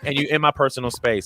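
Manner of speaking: a light mock of a scared, mad girl; angry little girl. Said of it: "she's like".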